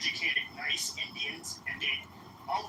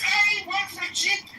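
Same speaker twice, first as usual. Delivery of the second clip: slow, loud mock Indian accent rant; mock Indian shout; 13 semitones higher, 9 dB louder, slower than usual. Ranting at the stranger in a loud, slow mock Indian accent. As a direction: bellow it out in a hammed-up Indian accent.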